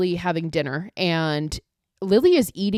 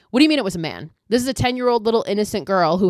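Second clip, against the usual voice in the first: louder, incredulous demand; loud disbelief; 3 semitones higher, 6 dB louder, faster than usual. Real, not acted. Recapper shouting at the movie character in loud disbelief. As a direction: throw the question at the screen in disbelief.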